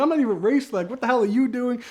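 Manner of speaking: cursing her out. Retold or imitated. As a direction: replay snapping at the nosy driver. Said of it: "kinda cursing her out".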